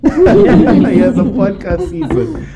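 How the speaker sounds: slow, laughing through the words. Real, not acted. Repeats the joke, laughing.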